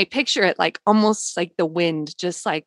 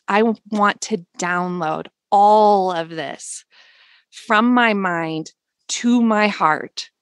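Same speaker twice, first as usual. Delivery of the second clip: slow, deliberate words sent to the universe; slow prayerful request; slower than usual. Shown as a demonstration. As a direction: draw each word out like a prayer.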